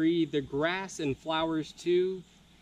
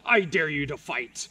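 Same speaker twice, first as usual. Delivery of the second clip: low, lightly voiced griffin snarl, a bit louder; 3 semitones lower, 4 dB louder than usual. Griffin challenging Leo to a fight, mild snarl. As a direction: dare him like a lightly voiced beast. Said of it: "snarled the griffin".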